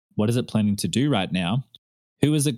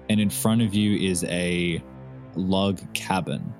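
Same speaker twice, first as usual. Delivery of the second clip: game master narration; slower than usual. Acted. GM narrates vision over music.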